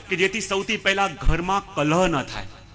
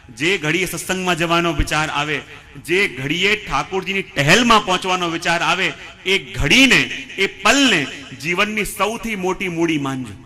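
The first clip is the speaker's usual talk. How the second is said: building preaching; 4 dB louder than usual. Real, not acted.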